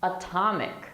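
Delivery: "Atomic" with a strong T on stressed TOM; true T. Shown as a demonstration. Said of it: "we pronounce the T normally".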